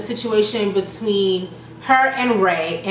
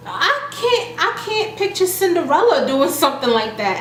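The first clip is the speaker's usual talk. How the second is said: mock disbelief; 6 semitones higher than usual. Paris voiced in disbelief.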